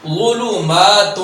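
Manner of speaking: ظلمات drawn out slowly in recitation. Shown as a demonstration. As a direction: chant ظلمات long and measured. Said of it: "tajweed recitation".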